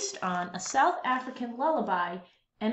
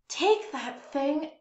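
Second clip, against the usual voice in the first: higher, louder, slow scold; grown-ups scolding; 5 semitones higher, 5 dB louder, slower than usual. Acted. Grown-ups chase the boy and his ukulele off, scolding. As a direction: shoo the boy away. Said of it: "the grown-ups would say".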